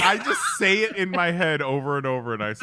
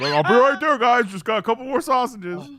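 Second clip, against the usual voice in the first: mock call out; 8 semitones higher, 6 dB louder than usual. Mock Lee stuffing sausages.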